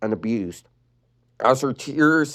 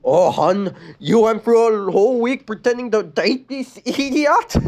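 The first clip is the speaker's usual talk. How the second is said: a hint of a snooty mean girl; mocking, condescending; sneering popular girl; Rebecca voice; 10 semitones higher, 3 dB louder than usual.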